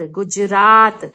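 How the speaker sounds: teacher drawing out गुजरात; slow demo. Shown as a demonstration. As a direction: spell out गुजरात slowly for the class. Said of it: "इसका sound आता है".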